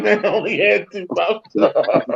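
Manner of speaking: slow, hurt protest in a put-on voice; mock defensive victim. Cohost mimicking the pranked man defending himself, slow mock plea. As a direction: drag it out like a wounded excuse.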